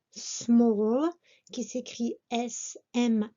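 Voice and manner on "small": "small" with a long "aw" vowel, rising at the end; careful pronunciation. Shown as a demonstration. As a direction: model "smawl" for "small", left hanging upward. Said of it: "Attention donc à la prononciation du mot".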